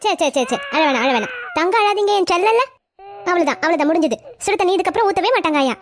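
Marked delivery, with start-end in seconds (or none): 0.0-4.2 put-on soothing a baby. Mother soothing her crying baby.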